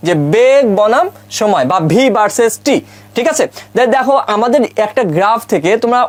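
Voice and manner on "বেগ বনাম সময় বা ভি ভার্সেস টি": slow, deliberate reading of the term; model reading. Shown as a demonstration. Teacher models a second graph's name for students, slow model reading. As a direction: give each word room, as for learners. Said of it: "এখানে উচ্চারণ করবা কিভাবে".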